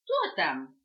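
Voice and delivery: loud startled call; puppy startled awake, calling out loudly; startled puppy shout. Acted. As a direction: jump up and shout who's there. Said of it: "вскочил щенок".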